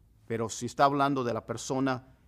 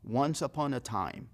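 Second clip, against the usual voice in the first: storybook opening; slower than usual. Shown as a demonstration. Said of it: "en inglés se dice".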